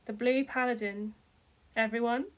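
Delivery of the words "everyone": shout. A narrator's reading. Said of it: "Lotor shouted".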